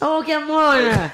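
high, drawn-out exasperated cry; loud protest. Real, not acted. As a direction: object noisily to the interruption. Protesting a co-host's interruption.

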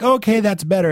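wife approving, lightly voiced; pleased Gloria, lightly voiced. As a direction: lightly play her approving. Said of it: "She's like".

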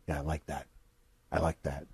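soft, low mumbling approval; a hint of Dean Ambrose. Dean answering the question, mumbled softly.

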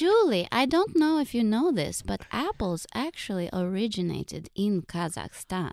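mom impression. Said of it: "talk as our moms".

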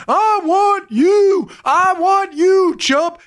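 high, loud, drawn-out taunting boast; Apollo Creed. Retold or imitated. Boxer taunts his opponent in the ring, hammed-up bellowing challenge. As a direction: stretch each word way up like a showboating boxer. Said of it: "Apollo Creed jumps in the ring with Drago".

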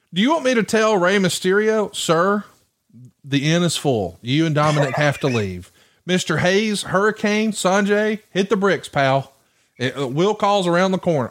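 high, mock-official turning-away of guests; mock doorman. Promoter pretending to clear wrestlers from backstage, mock-official. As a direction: act out politely throwing out famous guests.

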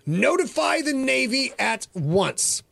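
mild mock yell of a ship captain, slow; a hint of a captain barking an order, slow; captain's order. A narrator's reading. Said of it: "He yelled to his radio operator".

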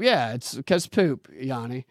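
slow, drawn-out deadpan repeat of the punchline. Shown as a demonstration. Repeating the chat's poop answer, slow and deadpan. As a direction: savor each word of it, slowly.

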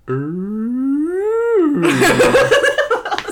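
high rising whale moan; hammed-up whale call, sliding up high; whale impression. Podcaster badly faking a whale for a co-host, mock whale call. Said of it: "how to do a whale impression".

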